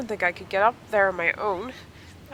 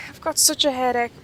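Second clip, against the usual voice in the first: put-on lightly raised, sore young rider; Sonya voice; 5 semitones higher, 4 dB louder than usual. Sonya explaining her fall to her friend, lightly raised sore voice. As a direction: tell it with a bit of a sorry-for-herself whine.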